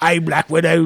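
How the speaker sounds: loud, mock-awful Russian accent; Ray Winston. Host ribbing an actor's film role, bad Russian accent. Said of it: "His awful Russian accent".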